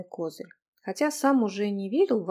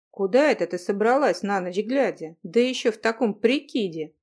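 cool tone; 4 dB louder than usual. Acted. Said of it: "с прохладцей в голосе".

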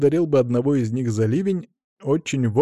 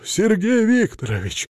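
high, eager call of a name; eager greeting; 10 semitones higher than usual. A narrator's reading. Director jumping up to meet his visitor, eager greeting. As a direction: greet him as if overjoyed.

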